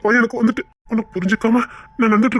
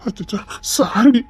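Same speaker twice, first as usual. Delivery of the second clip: slow, soothing sorry; husband comforting his crying wife; tender apology; slower than usual. Acted. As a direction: coax her gently, slowly.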